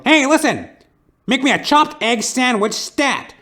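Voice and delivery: high, loud barking order, hammed-up noir tough guy; tough detective. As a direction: bark the order like a pushy old movie detective. Detective repeats order angrily.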